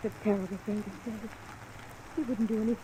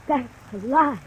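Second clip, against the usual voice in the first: louder, sharp indignant denial; 6 dB louder than usual. Acted. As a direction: throw the accusation back at him. Wife denies husband plans suicide.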